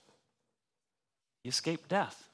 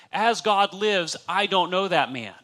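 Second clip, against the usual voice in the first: raised, louder, slowed mock oath in the Canadian-free voice of a cornered man; emphatic oath; 6 semitones higher, 6 dB louder than usual. Preacher voicing Peter calling God as witness, forceful. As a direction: swear it out loud with conviction. Peter swearing his lie.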